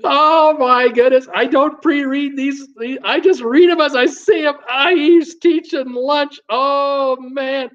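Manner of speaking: high, slow words squeezed through laughter; chuckling through the line; laughing while reading. Real, not acted. Host cracking up at a viewer's joke comment, laughing.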